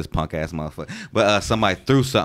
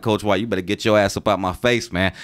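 acting hard. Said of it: "Trying to talk like that, trying to act a little hard".

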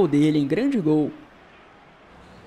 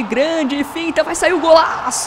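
explosive goal commentary; 6 semitones higher than usual. Real, not acted.

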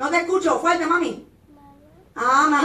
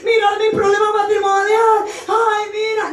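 a whiny, hammed-up lament, pitched higher; mock whimpering; 4 semitones higher than usual. Preacher mocks a woman crying over her marriage, in a whiny mock sob. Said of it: "empiezas a llorar".

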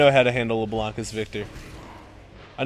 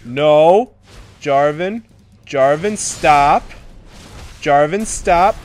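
insistent protest, getting louder; rising protest; 6 dB louder, much slower than usual. Real, not acted. Gamer telling Jarvan to stop, louder each time. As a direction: build up the alarm with each stop. Pleading with attacking champion, building.

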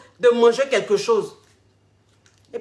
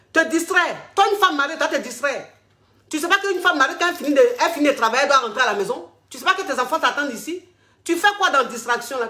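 higher, outraged scolding; indignant husband; 3 semitones higher, faster than usual. Acted. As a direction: scold her as the jealous husband. Husband scolds wife on phone. (le mari jaloux sermonne sa femme au téléphone, indigné)

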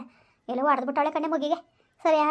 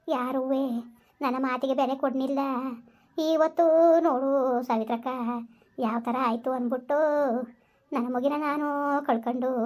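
weeping lament; 2 semitones lower than usual. Acted. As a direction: grieve aloud for the golden son. Mother laments.

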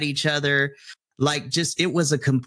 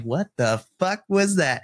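higher, exasperated outburst of a fed-up teacher; angry inner voice; 5 semitones higher than usual. Retold or imitated. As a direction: let the inner rage out, pitched up. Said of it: "this is the internal translation".

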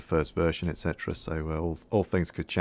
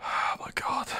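whispered; 5 dB quieter, slower than usual. Real, not acted. Breathless after the scare.

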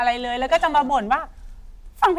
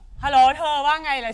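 slower, lightly gruff hello; mock gruff voice; 3 semitones higher than usual. Girl answering a friend's call in a mock gruff voice. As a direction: imitate her tough, offhand phone manner. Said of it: "เสียงห้าวๆ".

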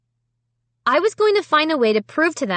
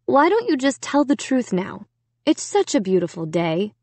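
lightly voiced coaxing mom; mild motherly urging; calling in; 4 semitones higher than usual. A narrator's reading. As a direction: coax through a door, starting higher. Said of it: "Mom called in".

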